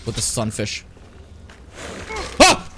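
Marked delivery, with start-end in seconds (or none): 2.4-2.7 high, loud fright, then exasperation; jump, then stretch out the relief; startled yelp. Real, not acted. Player scared by just a skeleton, startled outburst.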